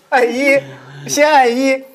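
acted step-by-step button pressing. Host acting the masseuse puzzling out lift buttons, emphatic and high.

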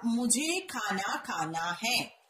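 मुझे खाना खाना है read slowly and softly; slow careful reading. Shown as a demonstration. Teacher dictating the correct sentence slowly to students. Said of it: "सही वाक्य क्या होगा".

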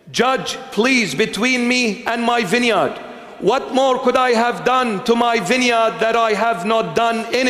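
high, impassioned preaching of scripture; scripture reading. Acted. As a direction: plead the verses as God to his people. Reads Isaiah with pleading.

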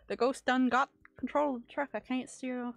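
loud, bad Canadian accent trucker. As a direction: shout it in a hammy Canadian accent. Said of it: "that's not even a Canadian accent".

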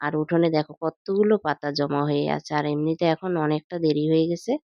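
talking around a toothbrush; muffled words with a brush in mouth; while brushing teeth. Real, not acted. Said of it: "এখন দেখো brush করতে করতে". (দাঁত brush করতে করতে কথা বলা)

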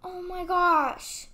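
slow, tearful gasp then oh my gosh; crying gasp. Acted. Girl finds her ruined family displays, tearful and slow. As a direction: choke up at the sight of the damage.

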